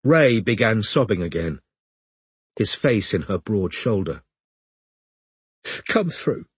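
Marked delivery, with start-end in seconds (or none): 5.9-6.5 hiccuping. Acted. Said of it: "hiccuped Hazel".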